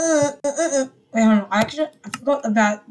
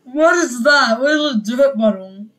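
incredulous; 2 semitones higher, 5 dB louder than usual. Real, not acted. Confused at item.

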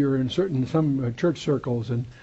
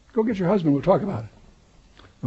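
a little sarcastic; 3 semitones higher than usual. Pretend. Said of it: "That's a little sarcastic".

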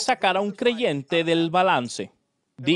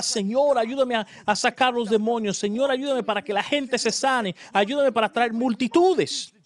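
higher, earnest pleading to the Lord; pleading retold prayer; 5 semitones higher than usual. Young believer praying to God, higher and pleading. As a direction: beg God for power and crowds.

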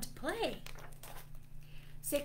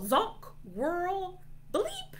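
pitched-up zonk, whirl and bleep; toy sound effects; 10 semitones higher, slower than usual. Pretend. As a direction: imitate noisy laser toys. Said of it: "Let's try those sounds".

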